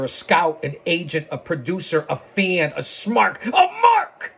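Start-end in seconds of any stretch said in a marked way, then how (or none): 3.4-4.3 shrill gloating wrestling manager; shout. Real, not acted. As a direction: yell it out proudly, high. Manager shouting his credentials.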